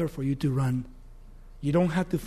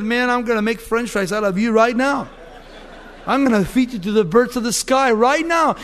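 taunting giant; 3 semitones higher, 4 dB louder than usual. Acted. Giant taunts David before fight.

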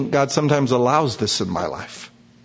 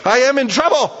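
panicked mock prayer; 4 semitones higher than usual. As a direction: cry out to God, hammed-up panic. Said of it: "Boom, I go".

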